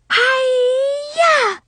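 high, loud karate yell; battle yell. Acted. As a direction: scream it with all your might. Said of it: "I screamed and swung my fist".

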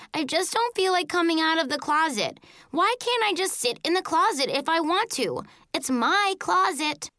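put-on high, whiny child's indignation; indignant protest. A narrator's reading. Child defending the closet to Dad, high indignant protest. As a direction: argue back, pitched high.

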